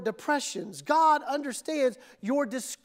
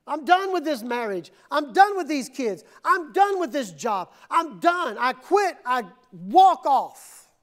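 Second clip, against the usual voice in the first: fed-up quitting; 2 semitones higher, 3 dB louder than usual. Acted. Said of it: "Sometimes you want to quit".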